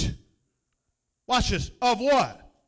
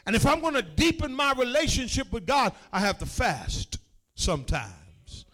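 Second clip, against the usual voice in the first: rhythmic preaching. Acted. Preacher to his congregation, rhythmic rising preaching. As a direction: build each line, preacher's cadence.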